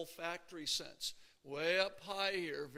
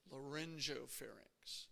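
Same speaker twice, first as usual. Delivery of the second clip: slow repeat; 6 dB quieter than usual. Shown as a demonstration.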